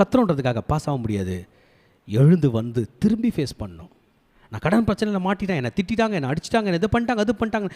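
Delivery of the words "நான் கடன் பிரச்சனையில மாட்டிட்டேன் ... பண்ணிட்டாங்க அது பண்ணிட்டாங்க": high, running list of grievances; mock lamenting. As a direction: imitate someone moaning about their troubles. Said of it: "நீங்க புலம்பி depression போனீங்கன்னா". (புலம்புவது போல நடித்துக் காட்டி)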